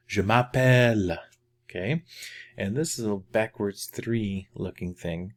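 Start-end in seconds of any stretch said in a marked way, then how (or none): 0.1-1.2 louder, connected "Je m'appelle"; quicker repeat. Shown as a demonstration. Teacher repeats the phrase for learners, natural-speed "Je m'appelle".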